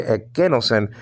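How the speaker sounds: ekenosen with the KE syllable stressed; stress on second syllable. Shown as a demonstration. Teacher showing students the accent, ekenosen stressed on KE. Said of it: "telling you where to raise your".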